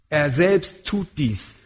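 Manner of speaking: „selbst“ langsam und schwer betont; slow emphatic. Shown as a demonstration. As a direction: Wort für Wort, Nachdruck auf „selbst“. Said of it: "steht dort zur Betonung". (langsam, mit Gewicht auf „selbst“)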